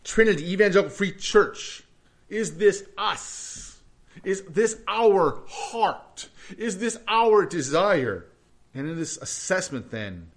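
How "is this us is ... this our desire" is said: slow, weighted questions, stress on this; slow searching questions. Real, not acted. Pastor asking his church to examine themselves, slow and searching. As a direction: let each question hang.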